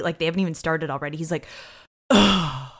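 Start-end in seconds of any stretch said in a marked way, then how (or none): 2.1-2.7 imitated weary sigh; defeated groan. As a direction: let out a groan of mock defeat. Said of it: "has an air of defeat".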